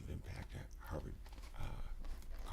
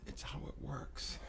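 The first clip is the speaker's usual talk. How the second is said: hushed, breathy whisper; soft confiding whisper; 5 semitones higher, 7 dB quieter than usual. Real, not acted. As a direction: lean in and whisper it. Intimate point made in whisper.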